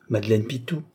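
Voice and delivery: Madeleine Pitou as a question, rising at the end; rising query on Madeleine Pitou. A narrator's reading. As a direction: ask "Madeleine Pitou" to check, lifting the end. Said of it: "demanda encore une fois".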